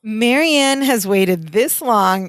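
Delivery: slow, self-satisfied explaining; condescending. Retold or imitated. Podcaster as Larry smugly explaining Marianne to Jennifer, condescending. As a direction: lay it out slowly, mock patronizing. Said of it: "in the most condescending voice".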